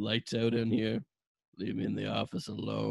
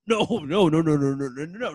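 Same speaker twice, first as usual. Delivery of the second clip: laughing denial; 4 semitones higher, 7 dB louder than usual. Acted. Caesar frantically denies.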